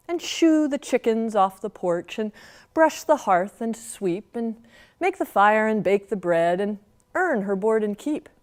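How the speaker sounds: measured storytelling verse; folksy poem reading; poem recital. Acted. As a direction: recite the old rhyme for children.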